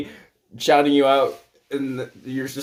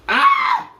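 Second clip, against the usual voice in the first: startled shriek; 8 dB louder than usual. Real, not acted. Startled mid-sentence.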